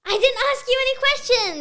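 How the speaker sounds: high, loud, sudden outcry; excited protest. Real, not acted. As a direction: blurt it out as a high-pitched protest. Child suddenly protests at interview's end.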